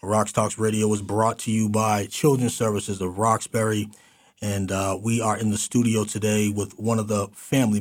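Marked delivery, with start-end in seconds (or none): 0.0-3.9 lifted opening, settling into station ID; polished radio intro; radio host announcing. Real, not acted. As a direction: welcome listeners back from the break. Radio host opens the segment.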